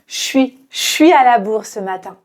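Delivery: quick, relaxed everyday delivery; casual natural speech. Shown as a demonstration. Teacher shows learners a natural, quick, casual delivery. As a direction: toss it off fast like real life. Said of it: "de manière très naturelle".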